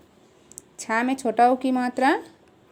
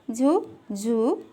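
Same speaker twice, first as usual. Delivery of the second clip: slow recitation; much slower than usual. Shown as a demonstration. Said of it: "ऐसे पढ़ेंगे इसको।".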